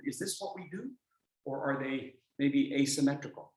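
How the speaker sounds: ordinary talk, nothing marked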